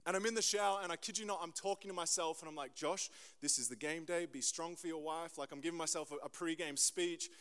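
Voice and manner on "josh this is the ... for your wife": quiet self pep talk. Retold or imitated. Pep talk to himself in shower.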